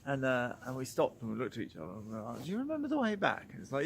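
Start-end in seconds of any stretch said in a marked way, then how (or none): 2.4-3.5 high, fast and worried; a high, hurried do you remember the way back; anxious question. Retold or imitated. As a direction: ask it in a rising panic, quickly. Retold anxious question, both lost.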